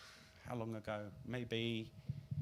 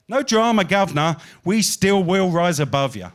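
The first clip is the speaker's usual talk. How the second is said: loud defiant climax; 3 semitones higher, 14 dB louder than usual. Acted. Poet ending the poem loudly to the audience, defiant. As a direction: hurl the last lines at the crowd.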